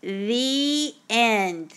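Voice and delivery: flat mock student sign-off; a hint of a clueless writer ending his essay; dull student voice. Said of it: "Or even worse".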